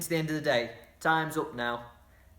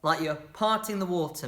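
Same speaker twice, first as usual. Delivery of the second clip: usual speaking voice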